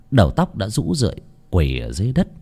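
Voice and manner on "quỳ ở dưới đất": plain reading voice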